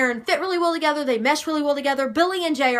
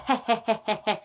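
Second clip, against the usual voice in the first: lightly imitated creepy cackle; quick, staccato mock old-woman laugh; creepy old lady laugh; 3 dB quieter, faster than usual. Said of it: "the creepy old lady laugh".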